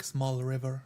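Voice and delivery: ordinary talk, nothing marked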